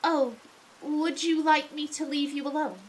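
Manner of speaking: lightly posh, polite assistant; a hint of a posh servant's voice; posh accent. Assistant offering to leave his master alone, posh accent. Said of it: "give him a relatively posh voice".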